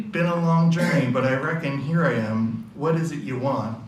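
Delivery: Hank sizing up the stranger, Irish Boston style; Irish Boston accent. Acted. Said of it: "yeah, Irish Boston accent".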